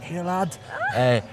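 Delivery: imitated Scouse, lifted in pitch; Liverpool accent. DJ friend offering him free drink, imitated in a Liverpool accent. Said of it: "then in a Liverpool accent".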